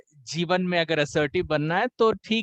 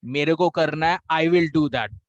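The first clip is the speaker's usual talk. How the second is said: mock aggressive; 4 dB louder than usual. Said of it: "जो aggressive होगा".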